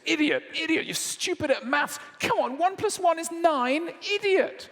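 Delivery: high, loud mocking rant at a child; angry teacher.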